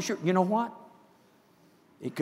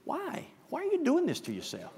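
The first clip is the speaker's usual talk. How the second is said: gentle voice of the Spirit; 11 semitones higher, 8 dB quieter than usual. Retold or imitated. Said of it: "the Holy Spirit said to me".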